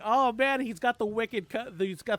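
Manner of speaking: loud, high-pitched delighted exclamation; excited reaction. Retold or imitated. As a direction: blurt it out like an impressed fan. Excited reaction to audiobook's accent.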